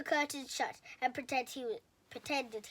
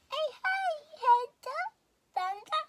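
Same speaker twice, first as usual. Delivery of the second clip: whimpered; 9 dB louder than usual. A narrator's reading. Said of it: "he whimpered".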